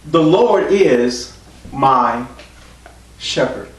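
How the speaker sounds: drawn out word by word; slow solemn quote. Retold or imitated. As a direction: let each word hang, slowly. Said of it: "David said".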